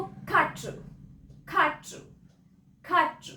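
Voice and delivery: खाटू as French quatre, "katr" with a k; French pronunciation. Shown as a demonstration. Teacher drilling French four, खाटू said "katr" with falling end. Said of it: "कैसे बोलेंगे उसको".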